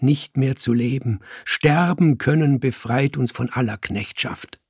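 loud, lofty declaiming; fervent revolutionary. Acted. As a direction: proclaim it like a creed. Robespierre quoting Montaigne to Lucille.

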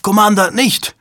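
high, anguished protest; desperate high cry to stop him; moaning plea. A narrator's reading. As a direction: plead in alarm, pitch way up. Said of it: "Susan stöhnte auf".

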